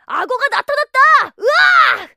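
high panicked pirate yelp; mock Hook screaming in fright; imitating Hook. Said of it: "하면서 말이야".

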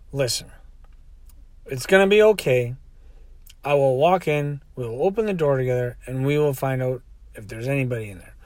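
soft, low, patient voice; calm reassurance. Retold or imitated. Driver promises to walk in with her, calmly reassuring. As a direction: talk someone down gently and quietly.

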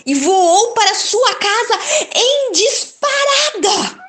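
high, laughing telling of the owl's flight; laughing narration. A narrator's reading. Narrator laughing as the owl flees, high. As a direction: let the giggle carry the escape.

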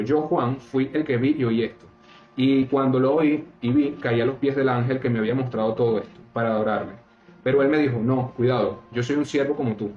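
solemn scripture reading, lightly lifted. Acted. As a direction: read the verses out like a lay preacher. Reads Bible passage aloud.

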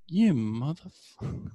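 slow, stunned mock curse at the coach; slow, incredulous half-joking curse; disbelieving curse. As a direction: drag out the words in comic disbelief. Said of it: "I looked at him and I was like".

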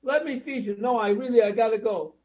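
mock grandma pleading with grandson. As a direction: beg like a guilt-tripping grandma. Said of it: "they say something like this".

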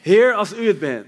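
calling out. Acted. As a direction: act out a disciple hailing his Lord. Acts Peter calling to Jesus. (luid roepend, als Petrus)

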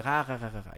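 soft imitated group chuckle, tapering off; mock laughter. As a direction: imitate friends laughing, quietly. Acted laughter of friends watching.

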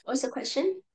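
breaking up over the call; garbled distant line; bad connection. Real, not acted. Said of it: "you're breaking up".

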